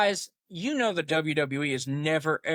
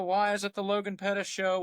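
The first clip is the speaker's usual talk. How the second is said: ordinary talk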